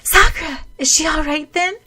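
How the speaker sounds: worried question. Acted. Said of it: "asked Tomeo".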